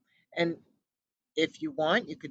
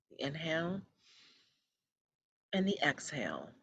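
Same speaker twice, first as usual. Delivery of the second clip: guided meditation. Acted. Host helping listeners release their thoughts, calm guided meditation. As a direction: lull them back to the breath.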